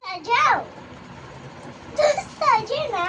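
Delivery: calling out. Real, not acted. Child calls friend to come play, calling out. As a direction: call a friend over to play.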